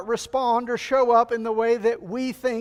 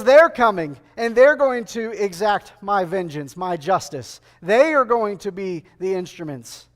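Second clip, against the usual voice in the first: God declaring; 3 semitones lower, 5 dB louder than usual. Retold or imitated. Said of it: "And he says".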